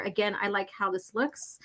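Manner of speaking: soft whisper to himself; whispered aside. Real, not acted. Reader admiring the artwork to himself, whispered. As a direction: breathe it out as a private aside. Aside while flipping the pages.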